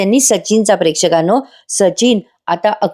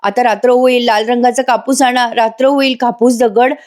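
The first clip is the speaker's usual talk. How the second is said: higher nonsense babbling; mock raving; 4 semitones higher than usual. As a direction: ramble wildly like a madwoman. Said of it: "काही पण बरळत असते". (बरळल्यासारखं बोलणे)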